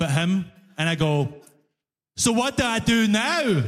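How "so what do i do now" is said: higher-pitched, innocent newcomer; pretend clueless foreigner. Passenger feigns never having used the TTC, clueless foreigner. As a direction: play the baffled foreigner, pitched up. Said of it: "I pretend to be a foreigner".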